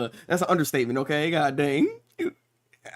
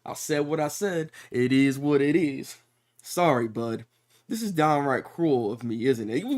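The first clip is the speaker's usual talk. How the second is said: lightly voiced unbothered villain, measured delivery; Barum; 3 semitones lower than usual. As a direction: play him casually owning up, a touch deadpan. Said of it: "Barum just sitting there like".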